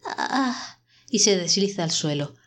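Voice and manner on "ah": high, soft, laboured "ah"; rough seal-like groan. A narrator's reading. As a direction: struggle to get out a harsh cry. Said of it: "con una voz áspera, como la de una foca". (quejido áspero como de foca)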